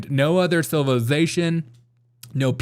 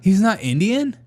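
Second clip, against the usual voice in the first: higher, louder fake outrage; mock gasp shock; 6 semitones higher, 3 dB louder than usual. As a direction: gasp as if scandalized. Gasps before.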